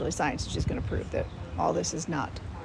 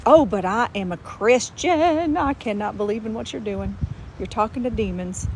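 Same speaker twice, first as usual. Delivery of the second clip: pearl-clutching Christian; 2 semitones higher, 4 dB louder than usual. Retold or imitated. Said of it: "clutch their pearls and say".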